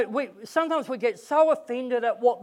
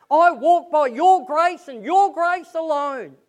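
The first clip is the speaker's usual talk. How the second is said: fervent, raised prayer voice, higher and louder; humble prayer; 4 semitones higher, 3 dB louder than usual. Retold or imitated. Preacher models a humble prayer for the congregation, fervent and raised. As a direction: pour it out to God, lifting on the Lord calls. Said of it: "we go away and we pray".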